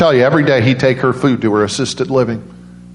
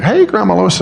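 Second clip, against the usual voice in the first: excited call; 8 semitones higher than usual. Retold or imitated. Calling out greeting.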